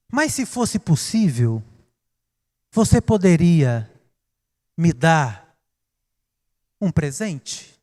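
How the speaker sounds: put-on hushed, overly polite child asking his father; softly, like a child minding his manners. A lightly voiced child politely asking his busy father, hushed. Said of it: "Ele diz assim".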